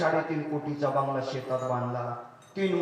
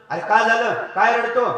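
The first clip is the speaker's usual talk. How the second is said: loud, raised scolding voice; old man scolding; 6 semitones higher, 9 dB louder than usual. Acted. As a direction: bark at the crying son. Old man questions crying son. (मुलाला मोठ्याने दटावणारा म्हातारा)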